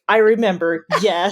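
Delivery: mildly excited quoted realisation; sudden recognition. Retold or imitated. Fan retelling the moment the show comes back, pleased recognition. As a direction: play the memory clicking back, ending in a laugh.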